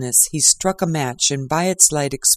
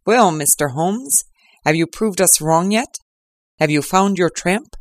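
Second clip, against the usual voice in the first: triumphant inspector; 3 semitones higher than usual. Acted. Lestrade crowing at Holmes, mild triumphant shout. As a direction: crow over Holmes, lightly voiced. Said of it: "he cried".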